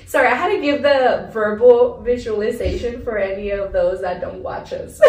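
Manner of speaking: loud, laughing through the words; laughing apology. Real, not acted. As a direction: giggle while apologising to viewers.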